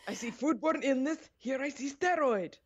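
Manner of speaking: high-pitched mock Russian accent; T-Bach. Lab inspector reporting what the microscope shows, hammy Russian accent. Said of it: "I don't know why I just made him sound Russian".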